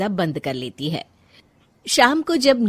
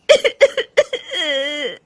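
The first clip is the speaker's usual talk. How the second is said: breaking into sobs; 6 semitones higher, 5 dB louder than usual. Acted. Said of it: "Rajni रोने लगती है".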